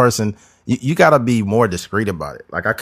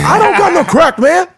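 high, loud indignant protest; high protesting suspect; 6 dB louder than usual. Pretend. Suspect protesting planted crack.

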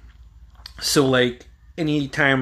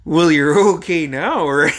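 slow, high, drawn-out mom imitation; loud mock-motherly reassurance; mom's voice; 4 semitones higher, 6 dB louder than usual. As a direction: stretch it out like a hesitant mother. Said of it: "she, she's like".

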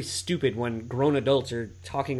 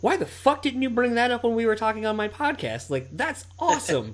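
much higher, incredulous mock outburst; retold exasperated outburst; 10 semitones higher than usual. Scolding his friend for not mentioning it, high exasperation. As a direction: throw up your hands in disbelief.

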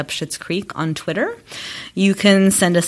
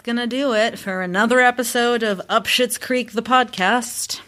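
slight newsreader sign-off lilt; closing the show like a broadcast; news anchor; 5 semitones higher than usual. Real, not acted. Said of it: "sound like an anchor closing the news".

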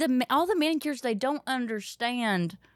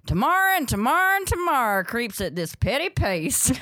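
Shakespeare recital; 4 semitones higher than usual. Retold or imitated. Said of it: "Like doing Shakespeare".

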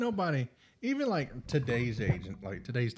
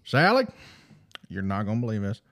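hammed-up Mississippi country drawl, husband on the phone; a Mississippi fisherman telling his wife about aliens; Mississippi accent; 4 dB louder than usual. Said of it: "in my best Mississippi accent I can".

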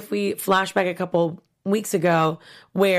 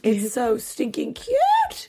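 gushing whisper; 6 semitones higher, much slower than usual. Real, not acted. Gushing over baby clip.

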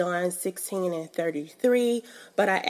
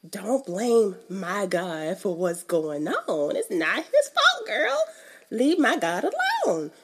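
frustrated retort. Retold or imitated. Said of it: "it makes me so frustrated 'cause I'm just like".

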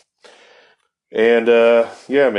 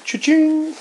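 cash register cha-ching. Retold or imitated. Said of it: "I was like".

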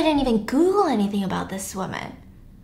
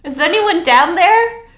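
raised, slow call into the dark; 6 semitones higher, 4 dB louder than usual. Acted. Woman calling into the dark, slow raised call. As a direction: call down hesitantly, slower.

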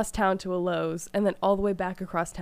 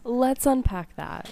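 laughing; 4 semitones higher, 5 dB louder, slower than usual. Pretend. Echoing youth pastor line laughing.

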